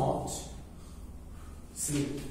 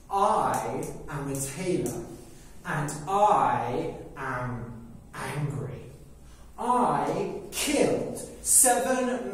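loud boasting; 2 semitones higher than usual. Acted. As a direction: shout your brags at the guards outside. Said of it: "He said very, very loudly".

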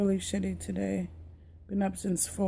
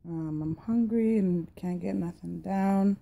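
after tonsil surgery. Real, not acted. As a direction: talk carefully around a swollen, painful throat. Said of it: "I can barely swallow anything".

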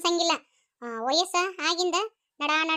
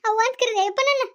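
higher and louder, bursting with joy; joyful exclamation; 6 semitones higher, 4 dB louder than usual. Acted. Mother overjoyed when her son first calls her mother, loud joyful exclamation. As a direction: cry out in delight.

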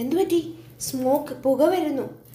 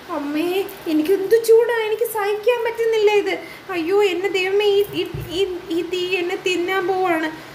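burning tree; 5 semitones higher than usual. Acted. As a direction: wail from inside the flames. Tree crying in the fire.

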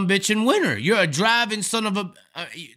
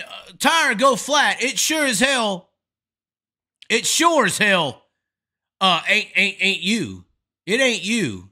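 getting emotional; 3 semitones higher than usual. Real, not acted. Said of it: "I got a little emotional there".

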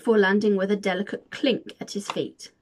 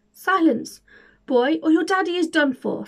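louder, higher villain snarl; spat threat; 8 semitones higher, 5 dB louder than usual. Acted. Hunter threatening William, spat villain threat. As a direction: spit the words at the boy. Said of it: "spat the hunter".

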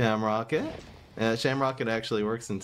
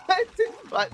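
frustrated shout; 4 dB louder than usual. Real, not acted. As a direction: let it rip in real frustration. Curses again after laughing.

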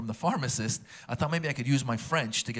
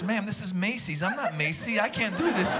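higher, exasperated store clerk; 6 semitones higher than usual. Retold or imitated. Clerk refusing the haggling aunt, exasperated. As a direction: plead helplessly. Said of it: "The guy goes".

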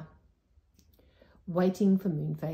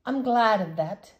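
polite; 4 semitones higher, 7 dB louder than usual. Acted. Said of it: "said Joe politely".

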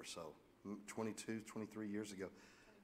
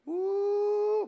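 sudden high excited ooh; 12 dB louder than usual. Real, not acted. Preacher marveling at God's power, high excited ooh. Preacher exclaims mid-sermon.

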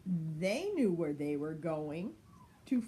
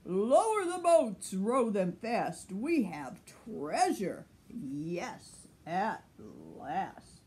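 pirate crew; 4 dB louder than usual. Acted. Pirate crew shouting orders.

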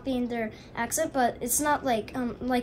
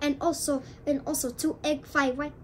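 mock Chinese-accented takeout order. Caller ordering seafood, in a Chinese accent. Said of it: "I know the accent is like this".

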